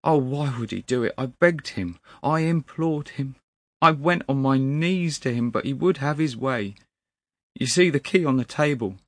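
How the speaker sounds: high, loud, anguished pleading; distraught clerk. A narrator's reading. Weeping clerk tells of begging his master, distraught. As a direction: pour it out in grief.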